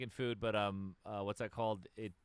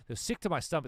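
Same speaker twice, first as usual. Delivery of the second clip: high, raised mock Toronto accent; 6 semitones higher, 5 dB louder than usual. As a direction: imitate a girl's bad Toronto accent. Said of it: "no, she goes".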